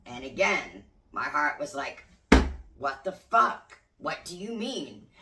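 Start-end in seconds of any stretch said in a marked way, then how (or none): 2.8-5.1 loud, slow, shocked "What the fuck?"; shocked outcry. Retold or imitated. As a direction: hurl the words out in disbelief. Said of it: "I didn't say it quite like that".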